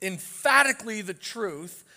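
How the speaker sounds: firmly emphatic, imitating a dogmatist; mock dogmatic insistence, leaning on "emphatically". Preacher voicing people with polarizing views, dogmatic. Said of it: "It's, it's dogmatic".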